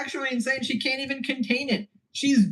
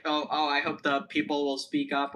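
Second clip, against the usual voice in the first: mocking streamer voice; 6 semitones lower, 5 dB quieter than usual. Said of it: "that thing she said of".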